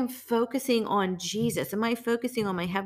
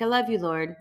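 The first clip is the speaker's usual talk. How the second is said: flippant. Shown as a demonstration. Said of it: "we just say that so flippantly".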